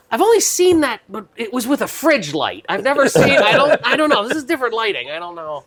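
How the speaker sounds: high, flustered imitation of Jen; imitating Jen. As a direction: play her confused and unsure. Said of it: "Jen would be like".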